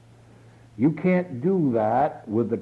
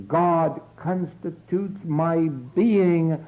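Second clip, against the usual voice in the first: slow reverent affirmation; 4 semitones higher than usual. Acted. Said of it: "but you will say".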